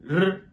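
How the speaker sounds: R said like the Chinese r; R as the Chinese letter r; Chinese r sound. Shown as a demonstration. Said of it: "pour la lettre R".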